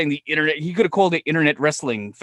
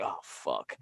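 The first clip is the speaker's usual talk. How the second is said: muttered dismay; 12 semitones lower, 14 dB quieter than usual. Retold or imitated. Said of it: "And I'm like".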